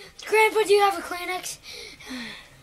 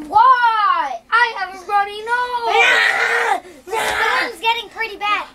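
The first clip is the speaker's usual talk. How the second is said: shouting; 6 dB louder than usual. Pretend. Shouting in pretend storm scene.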